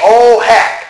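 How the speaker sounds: a high, loud, hammed-up "Oh heck"; mock prim exclamation. Mocking people who say it, a high hammed-up "Oh heck". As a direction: mimic a mincing substitute swear. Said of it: "Don't say".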